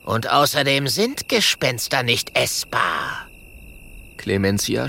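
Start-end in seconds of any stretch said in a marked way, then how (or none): 0.0-3.3 cutting voice. Acted. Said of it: "mit schneidender Stimme".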